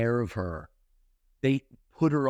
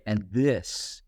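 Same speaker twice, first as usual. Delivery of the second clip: inner voice; 5 semitones lower, slower than usual. Retold or imitated. A voice inside Helen tells her, low and hushed. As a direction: let it sound like a voice from within, hushed and low. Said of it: "almost like a voice in her say".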